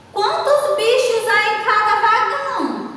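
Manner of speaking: high, sustained question tune dropping on "vagão"; questioning intonation. Shown as a demonstration. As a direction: hold "Quantos bichos" high as a read-out question. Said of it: "observaram aí na entonação que eu dei".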